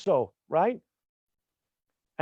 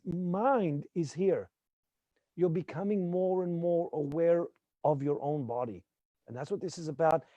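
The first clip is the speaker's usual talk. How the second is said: soothing massage murmur; 6 dB quieter than usual. Shown as a demonstration. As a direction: lull them into awareness. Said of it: "guiding awareness, softer voice".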